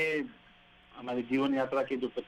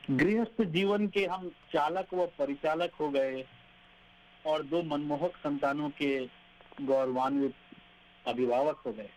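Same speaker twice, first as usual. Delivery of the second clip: poem recitation. Acted. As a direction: read each line like a verse.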